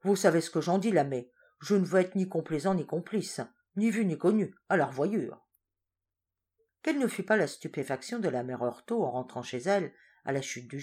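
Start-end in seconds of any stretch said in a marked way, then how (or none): 0.0-5.4 lightly voiced wily farewell; sly farmer. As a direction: take your leave slyly. Farin's parting words.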